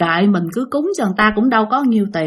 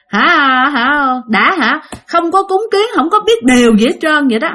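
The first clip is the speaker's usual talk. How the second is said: mock ghost voice; 5 semitones higher than usual. Ghost voiced complaining through girl.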